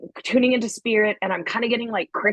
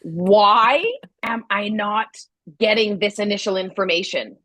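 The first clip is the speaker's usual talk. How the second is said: retold frustration; 2 semitones higher than usual. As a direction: act out a frustrated demand for an answer. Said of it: "at first the frustration for me".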